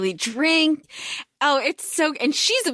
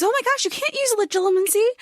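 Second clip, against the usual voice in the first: teasing; 10 semitones higher, faster than usual. Retold or imitated. Retold Hermione teasing.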